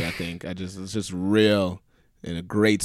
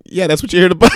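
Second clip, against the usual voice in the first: louder, higher retort; exasperated retort; 7 semitones higher, 9 dB louder, faster than usual. Retold or imitated. Dealer snapping at the clueless cop, loud. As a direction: tell him off, exasperated. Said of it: "He's like".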